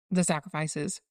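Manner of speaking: words stretched by a yawn. Real, not acted. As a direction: say it mid-yawn. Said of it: "Sorry, I just yawned".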